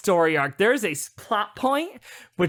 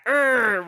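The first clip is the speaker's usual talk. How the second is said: mock strained groan; 5 semitones higher, 3 dB louder than usual. Imitating the scared crew groaning.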